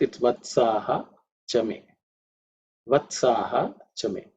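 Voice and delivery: "Vatsaha chame" as two separate words; split mantra. Shown as a demonstration. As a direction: break "Vatsaha chame" with a pause before "chame". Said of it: "When the mantra is split".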